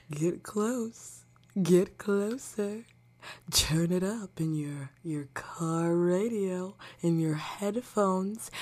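soft close-mic whisper; right in your ear. Pretend. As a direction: breathe it right into their ear. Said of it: "Am I right in your eardrum?".

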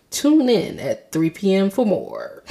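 slow mock newscaster outro; news anchor sign-off. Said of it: "I sound like a news anchor".

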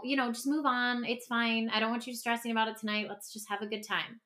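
soft, hurried excuses for a partner; brushing it off. Retold or imitated. To a friend about the partner, soft and dismissive. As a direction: play it down softly so the friend won't worry.

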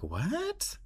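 very high, breathy disbelief; a stunned squeak of a question; shocked what. Retold or imitated. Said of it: "And I'm like".

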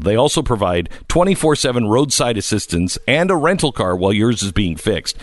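upbeat sponsor read. Acted. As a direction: read it like a radio ad. Reads a sponsor ad.

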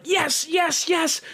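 hopeful chant of yes; retold hopeful yes. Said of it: "I was like".

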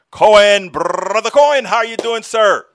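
loud, high hearty welcome; excited welcome. Real, not acted. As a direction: greet the guest with a big hype. Big welcome of guest.

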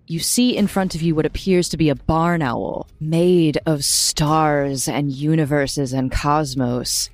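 story narration. Acted. GM describes the cosmic owl.

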